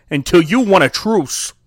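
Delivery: blustering Canadian finish; mock Canadian accent. Host finishing the threat to co-host, mock Canadian. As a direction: round off a silly threat in Canadian. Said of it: "this is a pretty good Canadian accent".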